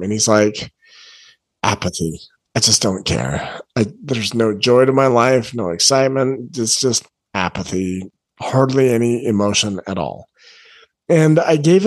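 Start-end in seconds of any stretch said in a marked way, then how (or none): 1.6-10.3 lightly voiced apathetic kid, a little low; understated shrug of not caring. Kid telling his coach his only emotion is apathy, apathetic.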